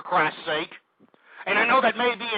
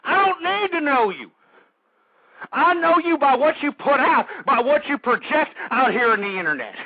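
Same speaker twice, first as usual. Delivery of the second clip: raised, indignant rant; heated on-air tirade, pitched up; angry rebuttal; 4 semitones higher than usual. Real, not acted. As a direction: hammer each accusation at the rival.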